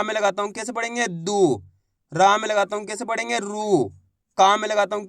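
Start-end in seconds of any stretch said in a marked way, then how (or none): 1.1-1.6 दू with a drawn-out long ऊ; खींचकर दू बोलना; long oo sound. Shown as a demonstration. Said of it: "खींच खींच के इसका उच्चारण करना है". 3.4-3.8 रू with a drawn-out long ऊ; खींचकर रू बोलना; long oo sound. Shown as a demonstration. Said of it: "खींच खींच के इसका उच्चारण करना है".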